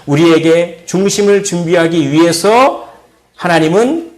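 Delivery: rising, ringing sermon cadence; preaching. Acted. Pastor preaching to his church, ringing sermon voice. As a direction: preach it, building toward the call.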